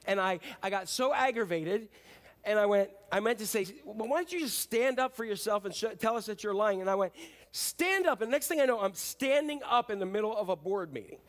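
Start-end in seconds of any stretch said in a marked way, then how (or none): 3.8-6.8 angry challenge. Retold or imitated. Furious pastor in board meeting. 7.5-8.2 high, loud furious shout of stand up; angry command. Retold or imitated. Pastor yelling at a deceitful board member, furious shout. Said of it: "And I'm angry".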